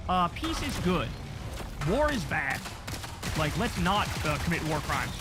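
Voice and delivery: mock Pope voice. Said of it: "the Pope was like".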